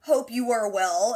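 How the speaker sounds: lightly acted composed greeting, slowing at the end; mock-formal hello with careful final words; held-together politeness. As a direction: imitate someone keeping it together. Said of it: "Jamie's holding it together".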